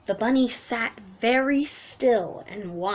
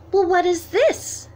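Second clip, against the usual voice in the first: little duck voice; 8 semitones higher, 5 dB louder than usual. Acted.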